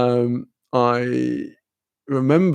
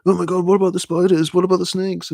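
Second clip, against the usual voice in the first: lightly higher, fast, gushing alarm; mock English tourist; 5 semitones higher, faster than usual. English people quizzing a traveller about Australia, mock alarmed. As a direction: playfully mimic a worried Brit asking about wildlife. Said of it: "you go".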